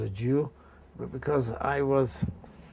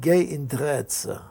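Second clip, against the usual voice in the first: slow defiance; slower than usual. Retold or imitated. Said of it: "That was Dutch courage".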